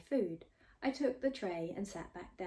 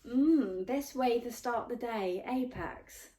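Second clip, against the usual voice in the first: much higher, louder and slow, showing off; 5 semitones higher, 5 dB louder, slower than usual. A narrator's reading. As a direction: stretch it out to be noticed. Pupilla sips juice at Pax.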